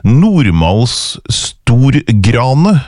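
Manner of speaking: Nordmalsstorgrane misread slowly as a puzzling compound. Retold or imitated. Host retelling a first reading of a strange word, slow misreading. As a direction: sound out "Nordmalsstorgrane" slowly, as if it were stor plus grane. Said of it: "var det første jeg leste, det, det var merkelig".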